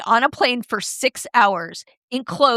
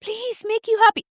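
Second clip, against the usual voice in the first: mock pleading; 13 semitones higher than usual. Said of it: "I'm not going like".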